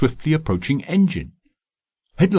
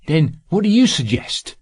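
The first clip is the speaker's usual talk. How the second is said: impatient, raised and sharp question; irritable; 6 semitones higher than usual. A narrator's reading. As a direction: snap it out, losing patience. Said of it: "Zurita asked irritably".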